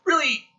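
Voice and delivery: really, high and drawn out; stress on really. Shown as a demonstration. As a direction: lean hard on really. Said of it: "unless it's really".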